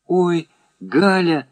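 радостный протяжный вскрик; вскрикнуть, медленно растягивая. A narrator's reading. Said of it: "вскрикнула Оля". (радостно вскрикнуть)

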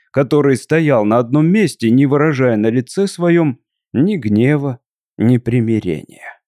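ordinary delivery

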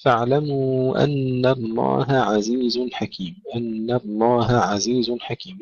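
الله عزيز with ه and ع each distinct; separated ha, ayn. Shown as a demonstration. Teacher modelling for students, distinct throat letters in الله عزيز. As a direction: finish ه before starting ع in الله عزيز. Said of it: "نفصل الهاء عن العين".

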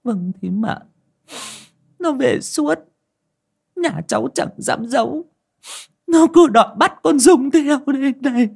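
put-on high, tearful old woman; choked-up mother. A narrator's reading. Mrs Nối confessing to the aunt, choked up and high. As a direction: get the words out through a tight throat. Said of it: "nghẹn ngào".

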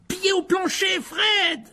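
high urgent getaway shout; loud, high-pitched scream of command; yelling. A narrator's reading. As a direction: yell it to the driver at full force. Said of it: "hurla Ron".

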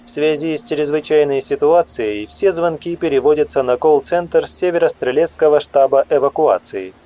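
phone recording, nasal woman; nasal recorded voice. Acted. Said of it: "гундосый женский голос сообщил".

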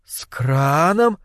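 put-on slow, naive girl's question. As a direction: ask it innocently, slowly. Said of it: "наивно спросила она".

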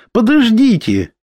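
high urgent call; exclaiming. A narrator's reading. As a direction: call them back, urgently. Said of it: "воскликнула она".

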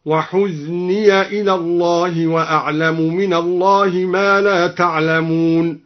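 chanted "وحزني" ending in -ya; open ya. Shown as a demonstration. Reciter demonstrates al-Duri's reading, "وحزني" as huzniya. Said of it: "وفتح الياء من قوله تعالى".

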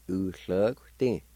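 U hluk tin said smoothly as one word; whole Cherokee word U hluk tin, blended; U, hluk, tin run together. Shown as a demonstration. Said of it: "like this".

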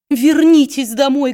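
high, loud, ardent cry; wife fervently begging her husband to come home; fervent plea. A narrator's reading. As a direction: throw everything into begging him home. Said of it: "горячо воскликнула его жена".

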